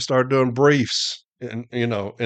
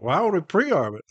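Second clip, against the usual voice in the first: higher-pitched mock disbelief; retold incredulity; 5 semitones higher than usual. Management's advocate questioning the pre-arb advice, mildly incredulous. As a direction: imitate a baffled questioner.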